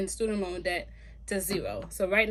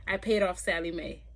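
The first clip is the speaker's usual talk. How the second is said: news anchor voice; 2 semitones lower than usual. Shown as a demonstration. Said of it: "I sound like a news anchor".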